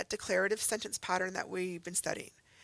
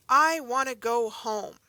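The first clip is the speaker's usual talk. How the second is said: 1 emphatic wish; 3 semitones higher, 8 dB louder, slower than usual. Acted. Reading an exclamatory example.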